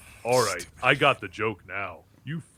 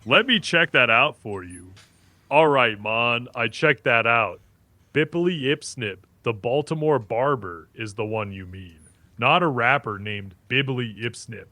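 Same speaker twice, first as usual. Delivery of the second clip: put-on Jamaican AI accent. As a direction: lay on a light island lilt, easy and upbeat. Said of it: "keep doing that same accent".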